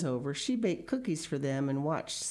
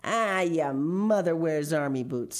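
snarled; 3 semitones higher, 5 dB louder than usual. Acted. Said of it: "snarled the biggest boy".

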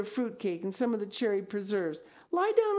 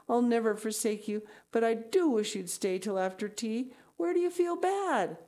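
higher, earnest, anxious voice; pleading; 6 semitones higher than usual. Acted. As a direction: plead with a friend, ending on a high worried question. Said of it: "In vain Anne pleaded".

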